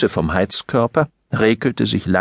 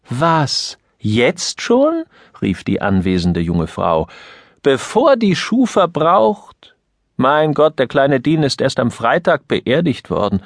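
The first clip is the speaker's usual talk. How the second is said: put-on surprised young woman; 4 semitones higher than usual. Young woman reacts to news.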